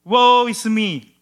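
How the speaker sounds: Isaiah terrified of God's judgment, slow cry; terrified lament. Acted. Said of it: "he was terrified".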